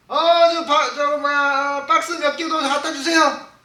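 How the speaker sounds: loud, high customer's request; acted shout to a cashier; calling out.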